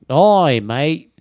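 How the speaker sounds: loud, high Australian greeting; broad mock Australian call; Australian accent. Showing off a favorite impression, Australian accent. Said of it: "I do the Australian impression".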